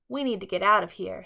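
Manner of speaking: urgent. A narrator's reading. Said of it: "said Chicken Little".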